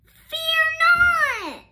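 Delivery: high, loud proclaiming hero cry; theatrical herald's shout; heroic call. A narrator's reading. Ruby Lee's heroic call.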